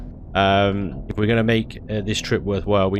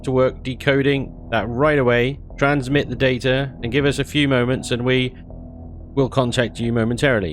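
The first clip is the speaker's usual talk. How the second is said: alien transmission voice; 5 semitones higher than usual. Acted. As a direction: play the alien comms officer, a bit higher. Voicing alien NPC transmission.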